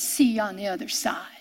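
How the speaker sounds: soft intimate whisper; preacher whispers God's parting words to Jesus. Acted. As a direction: breathe it like a tender secret. God's farewell to Jesus, hushed.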